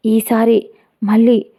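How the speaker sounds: ordinary delivery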